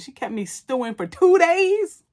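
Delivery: high, drawn-out disbelief; stumped. Retold or imitated. Randy learning the note was read days ago, mock stunned.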